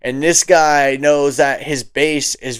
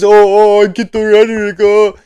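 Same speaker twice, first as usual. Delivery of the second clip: higher, louder, flustered mock; 5 semitones higher, 4 dB louder than usual. Mocking the flustered host, higher whiny mockery. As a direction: play him as rattled and whiny.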